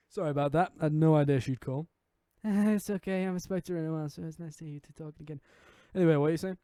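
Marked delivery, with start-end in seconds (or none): 2.4-5.4 put-on friendly girl. Voices a girl in game.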